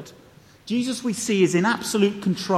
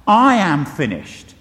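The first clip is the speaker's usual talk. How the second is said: slow, louder, self-pitying wail with weight on I am; a defeated man giving up, spoken slowly and louder; mock cry of surrender; 5 dB louder, slower than usual. Preacher mimics a defeated last cry, slow and self-pitying. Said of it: "last desperate self-pitying cry of surrender".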